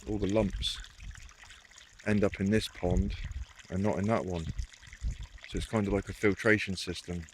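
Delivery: out of breath after carrying wood; heavy breathing. Real, not acted. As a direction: talk while catching your breath, heavy breathing. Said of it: "Excuse the heavy breathing".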